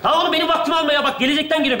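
hurried, laughing brush-off; impatient. Acted. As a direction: rush him along, exasperated. Impatient, hurrying his younger self.

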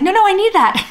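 very high-pitched, playful protest; urgent mock protest. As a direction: squeal it in mock urgency, imitating yourself. Acting out grabbing back the sweatshirt.

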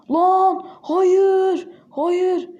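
high, pained protest at a miss; frustrated cry of no. Real, not acted. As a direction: groan it out as the ball misses. Shot missed in game.

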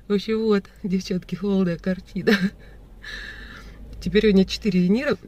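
numb lip after anesthesia; talking with a numb lip; numb from the dentist. Real, not acted. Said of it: "я так смешно разговариваю".

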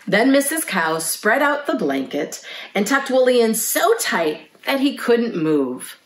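lively picture-book narration; reading to children. A narrator's reading. Librarian reads a lamb's bedtime story to children, storytelling. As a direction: read a bedtime story to little listeners.

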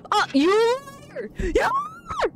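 high, slow, shrieking playful accusation; mock outrage. Real, not acted. Gamer shrieking at players whose tip failed, mock outrage. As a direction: squeal it at them like they betrayed you.

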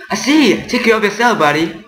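voiced Paul. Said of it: "Paul, what is it?".

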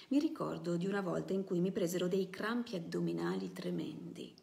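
steady storyteller reading, voicing the characters lightly; reading a novel aloud. Presenter reading a novel excerpt to the audience, storytelling voice. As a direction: read the passage like a story for an audience.

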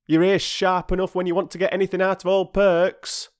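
put-on huffy, put-out old porter; aggrieved porter. A narrator's reading. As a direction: complain with wounded pride. Voices aggrieved Perks and exchange.

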